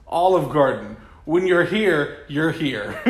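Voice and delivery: gurgling ad announcer; wet voice. Acted. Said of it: "Announcer, wet voice".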